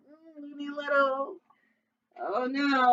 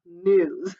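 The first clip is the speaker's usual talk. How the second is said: sly fox; 5 dB louder, slower than usual. Acted. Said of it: "said Foxy Loxy".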